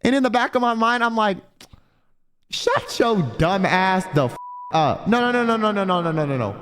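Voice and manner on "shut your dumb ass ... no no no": indignant inner clapback; irritated retort. Acted. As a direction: cut them off, annoyed, pitch sliding down through the no's. Acted inner retort to the guy.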